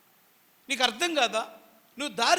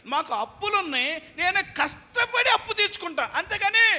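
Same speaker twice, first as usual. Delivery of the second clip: defiant higher voice of proud debtors; stubborn debtors; 9 semitones higher, 5 dB louder than usual. Retold or imitated. Preacher mimics debtors' defiant pride. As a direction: sound like someone too proud to ask forgiveness. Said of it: "వాళ్ళకు ఒక కసి ఉంది".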